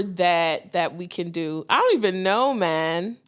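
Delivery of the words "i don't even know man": slips into a Toronto twang; Toronto accent. Real, not acted. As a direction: say it like a Toronto guy. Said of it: "Where did that accent come from?".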